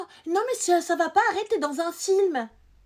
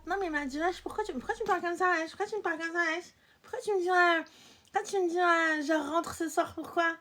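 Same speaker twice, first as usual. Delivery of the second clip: raised-pitch mock protest, tumbling repeats; indignant back-talk; 3 semitones higher than usual. Girl challenging a guy who orders her home, indignant. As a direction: act out an offended, stumbling comeback.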